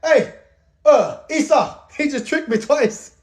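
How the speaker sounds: high-pitched mock astonishment; comic impression. Isaac telling Esau he was tricked, high comic voice. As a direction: borrow the comedian's high, amazed delivery. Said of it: "Literally, Jacob just said".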